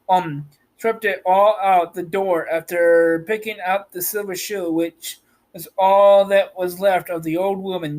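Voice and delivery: even, measured storybook reading; story narration. Acted. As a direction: read the tale aloud with a steady, level voice. Reads the story aloud.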